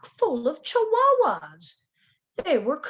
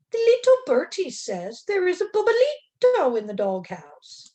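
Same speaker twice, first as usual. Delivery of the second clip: high, loud eager announcement; excited news; 6 semitones higher, 6 dB louder than usual. A narrator's reading. Kitten hears the bird's news, high and excited. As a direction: tell the big news breathlessly.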